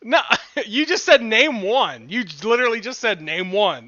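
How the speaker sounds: incredulous laughing complaint; cracking up while arguing; laughing protest. Real, not acted.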